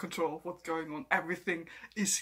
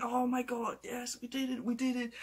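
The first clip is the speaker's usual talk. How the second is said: mock elation; 5 semitones higher than usual. Imagined triumph over happy music.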